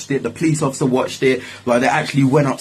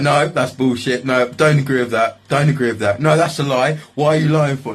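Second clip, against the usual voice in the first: retold angry denial; 4 semitones higher than usual. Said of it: "I was actually really angry".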